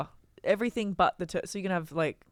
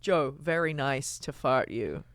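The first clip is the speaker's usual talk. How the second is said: put-on Chinese accent; 4 semitones lower, slower than usual. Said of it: "that's how a Chinese guy sounds".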